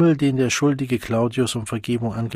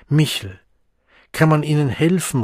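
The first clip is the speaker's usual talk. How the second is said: raised, higher call through the bathroom door; 5 semitones higher, 5 dB louder than usual. A narrator's reading. Helmholtz calls loudly to the Savage through the bathroom door. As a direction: call out louder to a friend behind a door. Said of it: "rief Helmholtz".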